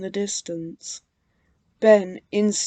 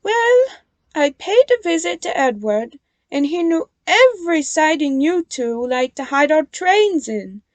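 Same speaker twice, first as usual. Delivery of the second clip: high, louder amused reveal; a touch of chuckling; 7 semitones higher, 6 dB louder than usual. A narrator's reading. Nia revealing hidden sidings, mildly chuckling. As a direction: tease them with a hint of laughter. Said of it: "chuckled Nia".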